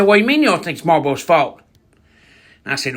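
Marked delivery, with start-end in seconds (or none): 0.0-1.6 indignant granny. Retold or imitated. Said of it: "And she said".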